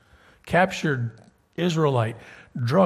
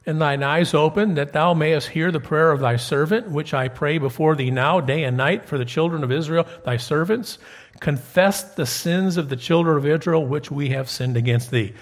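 louder, solemn King James reading; scripture reading; 3 dB louder than usual. Acted. Preacher reading a prayer from Nehemiah to his class, solemn and louder. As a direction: read the verse out to the congregation.

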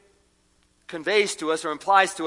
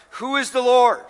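a hint of a defiant Pharaoh, louder; Pharaoh's challenge; 7 semitones higher, 5 dB louder than usual. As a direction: fling the question out like a scornful king. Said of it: "the question Pharaoh posed".

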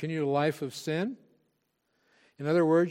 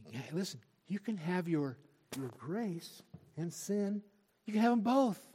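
sly tempter; 4 semitones higher, 4 dB quieter than usual. Retold or imitated. Preacher acting the tempter luring believers to sin, hushed then brighter. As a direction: slip it in like a devil at the ear, then sell it. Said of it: "And the tempter comes like that".

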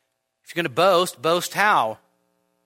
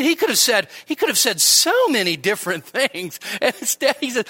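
ordinary talk

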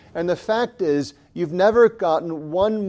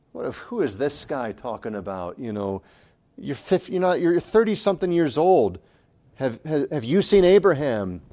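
mock smirk; 2 semitones lower than usual. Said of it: "imagine their smirk".

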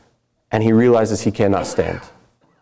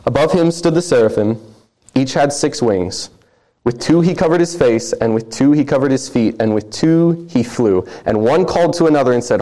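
solemn, measured reading of scripture; a preacher reading the passage aloud. Acted. Reads Isaiah passage aloud.

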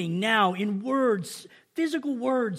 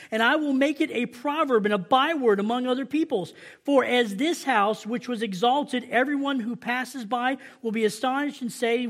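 raised, emphatic preacher's proclamation; forceful scripture reading; 3 semitones higher than usual. Acted. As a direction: drive God's warning home. Reads God's warning aloud.

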